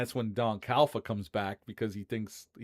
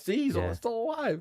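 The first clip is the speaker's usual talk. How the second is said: put-on wide-eyed man voice, higher; 12 semitones higher than usual. Retelling a movie ending where Paulie's eyes get wide: imitating Paulie wide-eyed. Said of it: "His eyes get wide, and he's like".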